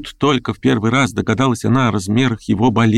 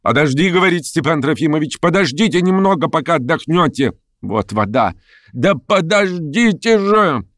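высокий, настойчивый женский окрик; останавливай больного высоким голосом, протяжно в конце; нетерпеливый уговор; 10 semitones higher than usual. A narrator's reading. Властно останавливает задыхающегося больного. (нетерпеливо, на высоких нотах)

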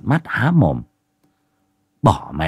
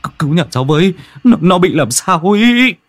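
higher, louder stammering plea; stammering in panic; 9 semitones higher, 5 dB louder than usual. A narrator's reading. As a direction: stumble over the words in terror. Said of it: "tay run run, miệng ú ớ".

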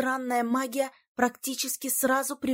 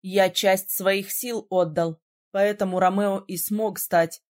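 slow, lower, grave tone; slow lower male voice; 5 semitones lower than usual. A narrator's reading. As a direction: confess a sacrifice gravely. (медленно, низким голосом)

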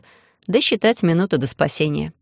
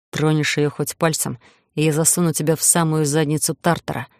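growled threat. Acted. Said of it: "прорычал в ответ Иден".

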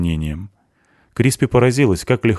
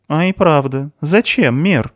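lightly intrigued, higher-pitched question; curious; 8 semitones higher, 3 dB louder, slower than usual. A narrator's reading. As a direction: ask with a touch of curiosity. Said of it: "заинтересовалась Туори". (с лёгким любопытством)

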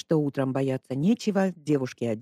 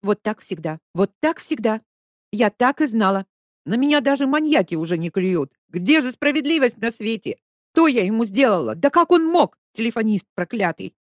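building higher and louder to a wail; Lesya, in shock, lamenting; hysterical lament; 7 semitones higher, 7 dB louder than usual. A narrator's reading. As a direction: wail at the injustice.

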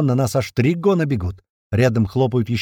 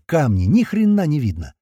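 ordinary delivery, nothing marked

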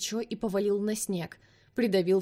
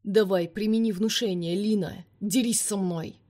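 growling; 4 dB louder than usual. Acted. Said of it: "прорычал Ник".

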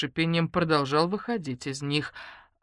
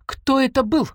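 stern; 9 semitones higher, 7 dB louder than usual. Acted. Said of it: "сурово спросила я".

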